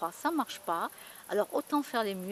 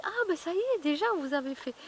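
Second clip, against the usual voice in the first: laughing reply; 7 semitones higher, 3 dB louder than usual. Retold or imitated. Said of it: "elle a dit".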